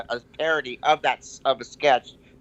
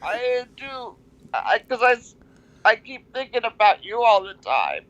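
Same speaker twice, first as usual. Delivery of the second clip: high, pleading mock sob voice; excusing herself to him; hammed-up high lovelorn whine; lovesick Danielle; 9 semitones higher than usual. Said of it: "He's like".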